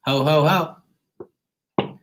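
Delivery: slow, drawn-out jolly Santa laugh; lightly hammed-up Santa chuckle. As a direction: play Santa for a beat. Santa hat greeting to viewers.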